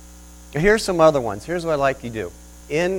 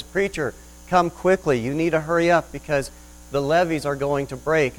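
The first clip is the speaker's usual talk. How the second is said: urgent call; 3 semitones higher than usual. Acted. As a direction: hurry him off the balcony. Motorboat man urges preacher.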